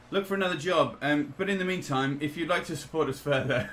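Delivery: Rishi Sunak. Retold or imitated. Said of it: "but Rishi Sunak today says".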